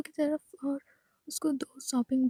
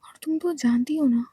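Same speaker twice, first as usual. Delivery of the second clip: firm hushing; 2 semitones lower, 6 dB louder than usual. Acted. Aayesha hushes Natasha.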